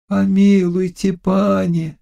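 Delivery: put-on high, gentle pleading girl; pleading bride. A narrator's reading. A mild girlish plea from Ksenia. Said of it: "стала просить".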